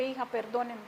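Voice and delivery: soft, subdued retold plea; quiet, contrite tone; calmed-down apology. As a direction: gently ask a daughter's forgiveness. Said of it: "calmé mi ira y le dije".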